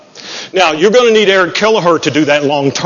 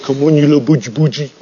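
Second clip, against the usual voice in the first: coaxing tease; 2 semitones lower than usual. Retold or imitated. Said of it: "I'm not real good at that kind of".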